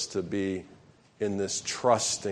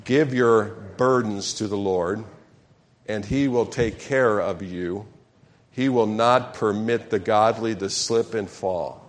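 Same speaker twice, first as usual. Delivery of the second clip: slow, measured group reading; reading together; reading scripture aloud. Shown as a demonstration. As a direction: lead the congregation through the verse. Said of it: "Everybody together".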